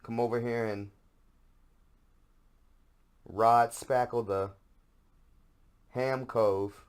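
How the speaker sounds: overdone goofy booty call; hammed-up seductive partner. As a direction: absurd lover inviting him over. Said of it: "Sesame Street way to tell me".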